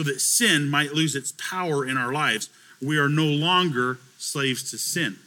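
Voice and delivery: slow, measured Bible reading; weighty, unhurried pulpit reading; scripture reading. Real, not acted. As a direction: read it out deliberately, phrase by phrase. Reads scripture aloud to congregation.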